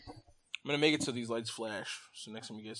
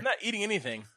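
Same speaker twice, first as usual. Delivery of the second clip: talking with a mouthful; words round a bite of popcorn; mouth full; 8 semitones higher, faster than usual. Real, not acted. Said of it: "what are you choking down over there?".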